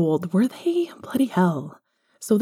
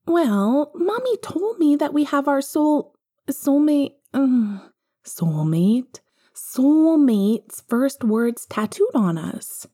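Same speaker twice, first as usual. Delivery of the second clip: put-on higher little-boy voice, hesitant; worried little boy; young Harry; 7 semitones higher, slower than usual. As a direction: speak as a small child fumbling the words.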